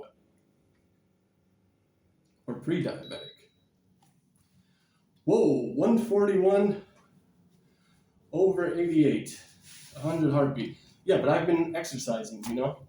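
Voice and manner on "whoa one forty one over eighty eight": surprised reading. Real, not acted. Reads his blood pressure.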